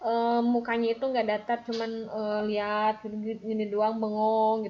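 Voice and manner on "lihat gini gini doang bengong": deadpan, vacant delivery; bored, empty tone; blank stare voice. Shown as a demonstration. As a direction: say it flat and vacant, like staring blankly. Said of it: "nggak kayak gitu ya".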